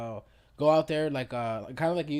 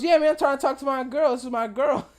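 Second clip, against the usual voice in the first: higher, louder proud insisting; hammed-up boyfriend, higher and louder; mock proud boyfriend; 11 semitones higher, 8 dB louder than usual. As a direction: imitate a guy bragging about his girl. Retold guy insisting on girl.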